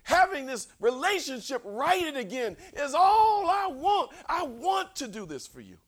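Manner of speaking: earnest, stressing want; sincere sorry voice. Shown as a demonstration. Preacher showing how a truly sorry person sounds, earnest. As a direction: say it like you truly mean it. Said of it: "this is the way you sound".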